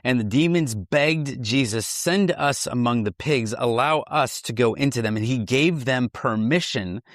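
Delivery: measured, deliberate read-aloud; scripture reading. Acted. Reading a Bible story to a co-host, slow scripture reading. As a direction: read the passage slowly, letting each phrase land.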